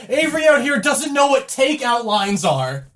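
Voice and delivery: high, slow laughing jab; laughing tease. Real, not acted. Teasing Avery, laughing.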